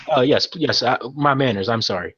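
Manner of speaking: flustered, tripping over the words; an anxious man rushing to apologise; lightly voiced nervous dockmaster; stumbling over himself. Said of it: "he's, like, stumbling over himself".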